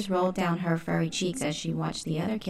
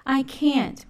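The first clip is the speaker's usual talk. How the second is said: put-on high, louder childish whine; whining; 8 semitones higher, 5 dB louder than usual. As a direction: whine like a sulky kitten. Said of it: "whined Alley Cat".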